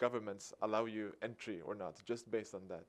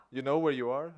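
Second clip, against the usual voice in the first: louder, higher, mock-incredulous police voice; incredulous question; 4 semitones higher, 9 dB louder than usual. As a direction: act the disbelieving cop. Police doubt his sanity.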